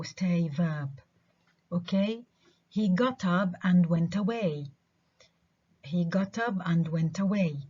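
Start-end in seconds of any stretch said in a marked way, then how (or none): 2.8-4.7 "up" and "away" stressed over their verbs. Shown as a demonstration. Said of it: "الستريس بالضبط جاي على up و away". 5.8-7.6 "up" and "away" carry the stress. Shown as a demonstration. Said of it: "الستريس بالضبط جاي على up و away".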